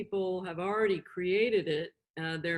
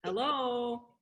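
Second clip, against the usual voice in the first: happy hello; 4 semitones higher than usual. Shown as a demonstration. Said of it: "you gotta smile if you're happy".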